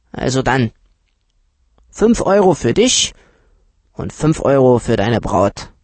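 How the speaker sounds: put-on a know-it-all dealer lowballing the children; uncle's voice. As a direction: play the condescending uncle talking down to the kids. Uncle voice again, teasing.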